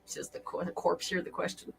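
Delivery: unvoiced whisper. Real, not acted. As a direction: whisper it right in her ear. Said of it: "you whispered it".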